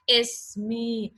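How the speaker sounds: "ismi" with the mouth moving down into a long i at the end. Shown as a demonstration. Teacher showing students how "ismi" ends on a long i. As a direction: stretch the last vowel of "ismi". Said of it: "I'm moving my mouth down".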